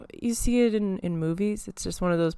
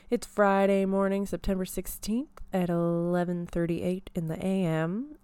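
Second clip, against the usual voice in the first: radio voice. Shown as a demonstration. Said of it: "practicing my radio voice".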